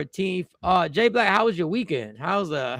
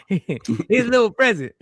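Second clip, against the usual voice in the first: slow, laughing through the words; mocking giggle at the gift; teasing laugh; slower than usual. Real, not acted. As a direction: chuckle at his little present. Teasing co-host about gift.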